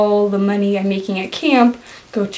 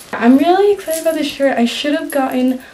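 talking around a retainer; slightly lisped retainer speech; wearing a retainer; 3 semitones higher than usual. Real, not acted. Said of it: "I have my retainer in".

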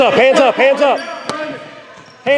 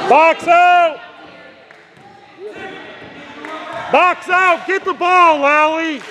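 shouting; 4 semitones higher than usual. Real, not acted. Coach yelling during basketball game.

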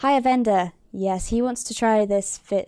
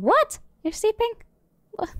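high squeak of disbelief; pitched-up surprised question; shocked what; 12 semitones higher than usual. Real, not acted. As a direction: sound baffled he's asleep. The character is asleep at night.

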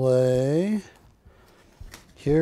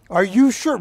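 higher, pressing question; one more teasing check; mock doubtful artist; 5 semitones higher, 4 dB louder than usual. Artist double-checking Barry, higher mock voice. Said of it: "I go".

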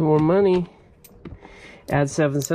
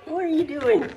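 high pet voice; 13 semitones higher than usual. Real, not acted. Cat scratching couch, pet voice.

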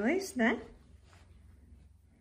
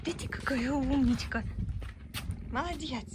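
talking to a dog; 3 semitones higher than usual. Real, not acted. Praising the dog.

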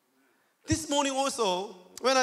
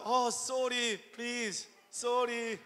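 softly pleading sorry; quiet, imagined plea; soft apology; 6 dB quieter, slower than usual. Retold or imitated. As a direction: imitate a gentle, apologetic spouse. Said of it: "I expect something".

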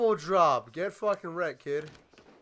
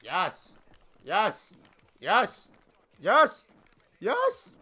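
building yes; 2 semitones higher, 3 dB louder, much slower than usual. Real, not acted. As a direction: build the cheer up step by step. Celebrating armbar win.

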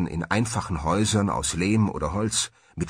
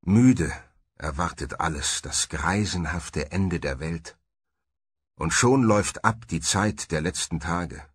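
Zitat des Bischofs; 3 semitones lower than usual. Acted. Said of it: "wie Bischof Orentius von Aquitanien sagte".

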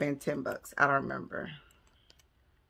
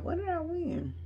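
a high, softer puzzled question; high squeak; 13 semitones higher, 6 dB quieter than usual. Real, not acted. Vlogger asks herself what she won, in a high squeak. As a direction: squeak it out, trying to remember.

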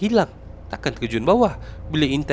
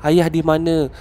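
retold panicked calling; 4 semitones higher than usual. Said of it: "Semua macam panik".

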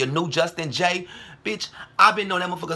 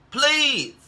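high yelp; 11 semitones higher than usual. Real, not acted. Ranting plea turns to outburst.

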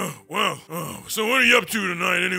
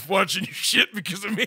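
laughing through the words; can't hold it together, giggling. Real, not acted. Devil player cracking up at his streaming friend, laughing.

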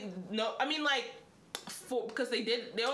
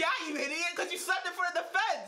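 mean caricature; 7 semitones higher than usual. Retold or imitated. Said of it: "making it sound like he went".

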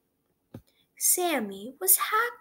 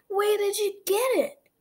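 lady voice; 10 semitones higher, 5 dB louder than usual. A narrator's reading.

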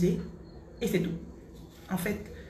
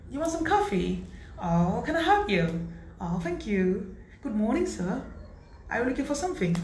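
mock sweet receptionist; 3 semitones higher, slower than usual. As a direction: play the pretty receptionist greeting clients. Acting receptionist greetings.

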